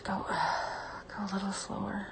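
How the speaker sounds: breathless whisper. Real, not acted. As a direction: whisper it, close and urgent. Whispered request while being touched.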